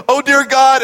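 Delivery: intense prayer. Retold or imitated. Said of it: "the intensity in Richard's voice starts rising".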